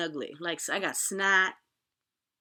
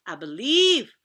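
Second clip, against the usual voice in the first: "I believe" called out much louder, falling firmly; proclaimed belief; 3 semitones higher, 13 dB louder, slower than usual. Acted. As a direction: shout "I believe" like a triumphant declaration. Belief proclaimed, loudly repeated.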